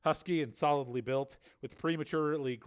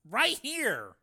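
high, louder bewilderment; bewildered; 11 semitones higher, 5 dB louder than usual. A narrator's reading. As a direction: answer as if you can't believe it.

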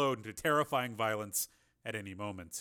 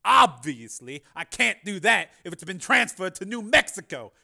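louder, higher patronizing Carmen; condescending politician; 7 semitones higher, 12 dB louder than usual. A narrator's reading. Carmen explaining to Jennifer, condescending. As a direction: talk down to her smoothly.

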